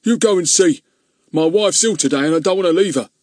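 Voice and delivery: put-on loud, high hoarse old man. Old man sending Ern to look, hoarse. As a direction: croak it out, worried about his wife.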